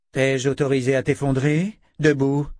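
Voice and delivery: lightly acted stern mistress, punch the final order; stern command. Dena to her collapsed captive, stern command.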